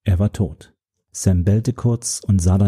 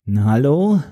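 high call into the wreckage; 5 semitones higher than usual. A narrator's reading. Narrator calling into the wrecked container, high call. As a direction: call out to whoever's buried there. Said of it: "rief ich".

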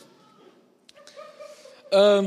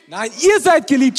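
loud and emphatic, hit ihr; shouted answer; 5 dB louder than usual. Real, not acted. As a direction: shout the answer back to the crowd. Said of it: "answers the crowd himself". (laut gerufene Antwort)

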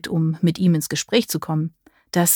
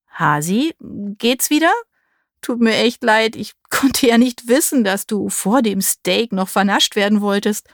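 a light, teasing smile in the voice; smile in his voice; 3 semitones higher than usual. Acted. Mark teases his girlfriend through the door, smiling. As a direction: grin through the apology. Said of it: "ein Lächeln schwang in Marks Stimme mit".

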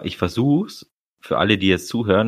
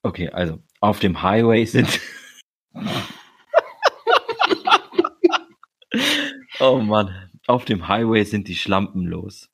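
stifled giggles. Real, not acted. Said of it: "Hör auf zu lachen".

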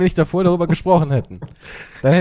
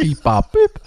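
mock robot beeping; robot beeps; 3 dB louder, slower than usual. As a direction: beep it out like a machine. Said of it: "So klingt's bei dir".

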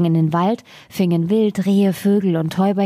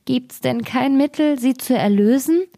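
higher-pitched, understated weeping plea; mildly tearful; 7 semitones higher than usual. Acted. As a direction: plead as a girl on the verge of tears. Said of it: "Das Mädchen sprach weinend".

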